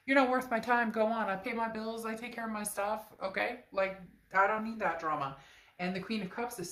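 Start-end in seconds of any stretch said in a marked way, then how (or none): 0.1-5.4 indignant. Real, not acted. Rising indignant rant.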